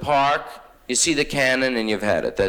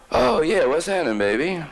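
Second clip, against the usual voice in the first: high-pitched, put-on friendly greeting; feigned delight; 6 semitones higher than usual. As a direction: greet them up high with fake enthusiasm. Woken comic feigns delight on phone.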